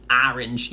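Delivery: "Orange" opened with a flat "a", AR-inj; mom's pronunciation. Retold or imitated. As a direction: imitate mom saying "Orange" with a flat A. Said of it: "Yeah, that's my mom".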